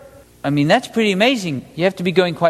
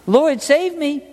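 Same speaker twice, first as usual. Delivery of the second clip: cry for help; 9 semitones higher, slower than usual. A narrator's reading. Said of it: "He cried out".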